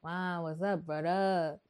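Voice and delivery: put-on New Orleans bro greeting; mock New Orleans accent on the phone; New Orleans guy voice. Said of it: "That's my voice is".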